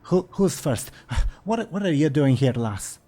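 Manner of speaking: high, excitable dwarf voice; blustering dwarf looking for a fight; feisty dwarf. Acted. Captured dwarf taking on his ogre captors, feisty and high-pitched. Dwarf answers ogres, spots the elf.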